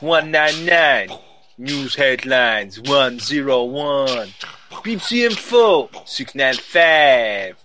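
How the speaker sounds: announcer voice. Pretend. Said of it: "you're lapsing into BBC".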